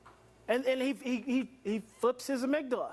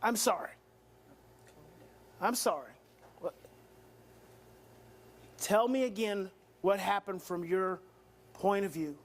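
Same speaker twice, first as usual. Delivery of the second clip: calm apology; 4 semitones lower than usual. Shown as a demonstration. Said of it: "Take a deep breath and say".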